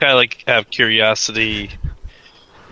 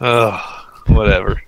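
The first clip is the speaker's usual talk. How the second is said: mild disgusted ugh, then dismissive; acted touch of revulsion; 2 semitones lower, slower than usual. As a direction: groan lightly and shrug it off. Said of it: "disgusted feeling every time".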